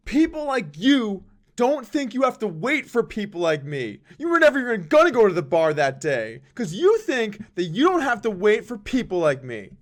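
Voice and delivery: loud, high angry accusation; hateful yelling. Retold or imitated. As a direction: imitate a man shouting a bitter rant. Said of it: "he yelled at me".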